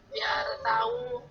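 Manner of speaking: slow, choked, crying through the words; real tears catching her throat; voice breaking into tears. Real, not acted. Mother choking up while retelling her son's words to the ustadz.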